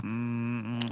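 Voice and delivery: soft, low "mm" hum; humming noise. Shown as a demonstration. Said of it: "a weird humming noise".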